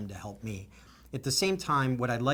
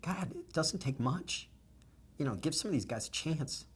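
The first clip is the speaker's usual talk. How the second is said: emotional plea; 4 semitones higher, 4 dB quieter than usual. Real, not acted. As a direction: plead for the veterans, deeply moved. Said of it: "I can probably restate that less emotionally".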